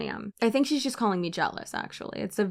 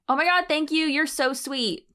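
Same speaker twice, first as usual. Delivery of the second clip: fake sweet; 6 semitones higher than usual. Replying to long hater comments with fake sweetness. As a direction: gush falsely to annoy. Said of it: "that usually pisses them off more".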